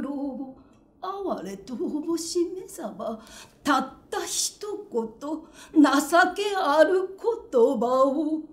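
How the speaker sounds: begging for one kind word, voice catching; pleading lover. Acted. Tojuro begs Okaji.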